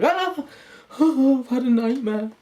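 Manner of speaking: high loud waking shriek; mock panic. Dreamer jolting awake from a nightmare, shrieking high. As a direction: jolt awake screaming from a bad dream.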